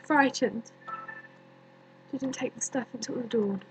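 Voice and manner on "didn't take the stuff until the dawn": hushed, halting, long pauses; quiet, sorrowful recollection with space between phrases; haunted grief. Acted. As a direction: sink softly into a haunting dream. Recalls tomb, haunted by dreaming of Romeo.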